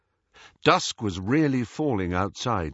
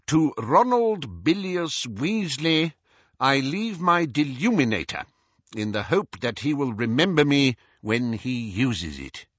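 Scrimgeour reading a will; 4 semitones higher than usual. Acted. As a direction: read out a bequest formally, lingering on the name. Scrimgeour reads the will aloud.

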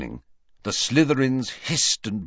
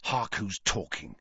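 soft, hushed retort; whispered back; 8 dB quieter than usual. A narrator's reading. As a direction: whisper it back under your breath. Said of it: "he whispered back".

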